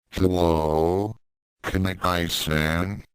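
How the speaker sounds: far-off voice drifting in; distant voice. Acted. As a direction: heard from a distance. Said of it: "Mew's voice drifted into his ear".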